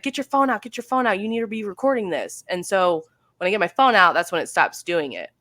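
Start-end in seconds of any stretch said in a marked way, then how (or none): 0.0-2.4 much higher, urgent imitation of the son; excited son. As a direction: hurry her to grab the phone, higher. Son urging to record the sound.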